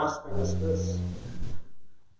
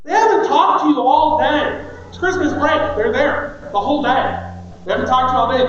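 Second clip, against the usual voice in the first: much higher and louder, ranting; preaching shout; 6 semitones higher, 7 dB louder than usual. Real, not acted. Pastor venting to the congregation about kids at bedtime, loud and high. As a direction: let it rise into a full-voiced preaching shout.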